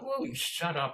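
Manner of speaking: high-pitched irritated demand; mock fed-up outburst; exasperated heckler. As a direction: imitate a man at the end of his patience.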